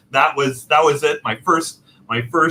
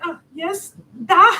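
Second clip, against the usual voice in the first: high relieved clerk; 5 dB louder than usual. Retold or imitated. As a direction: squeak a relieved yes. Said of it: "she was like".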